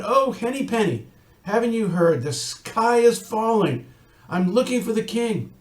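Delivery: a touch of breathless worry; worried little chicken. Acted. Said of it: "And Chicken Little said".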